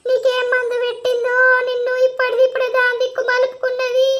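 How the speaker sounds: weeping, climbing in pitch while cursing the rival; crying. Acted. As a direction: sob out the accusations, rising. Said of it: "ఏడవకే నువ్వు ముందు".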